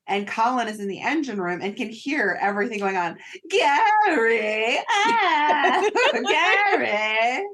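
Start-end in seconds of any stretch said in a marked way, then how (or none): 3.5-7.4 put-on high, squealy Irish-accented giggle; Daisy impression. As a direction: play a giggly Irish crew girl. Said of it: "your Daisy impression is hilarious".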